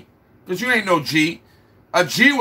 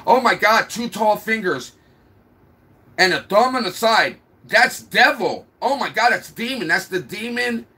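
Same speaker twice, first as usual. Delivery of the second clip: mock panicked viewer; 5 semitones higher than usual. Mocking dumb people who panic at the sign, hammed-up alarm. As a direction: ham up a dumb panicking person. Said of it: "They're like".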